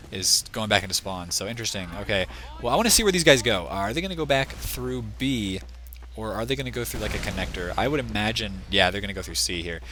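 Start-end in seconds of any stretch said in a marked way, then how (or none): 3.7-9.8 tired, hoarse caster voice. Real, not acted. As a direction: speak with a voice that is giving out. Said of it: "Oh, I'm losing my voice here".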